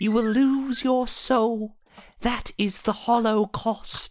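put-on elderly British woman voice. Quoting a line in a little old lady british voice. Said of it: "little old lady with the British voice".

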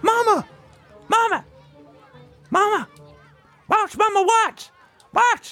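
acted-out yell. Telling a story, acting out someone at the pool yelling for attention: retelling a yell. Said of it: "So he yells".

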